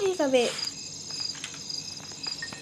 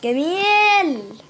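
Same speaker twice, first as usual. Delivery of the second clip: sarcastic drawl; 3 semitones higher, 4 dB louder, much slower than usual. Real, not acted. Drawn-out sarcastic remark.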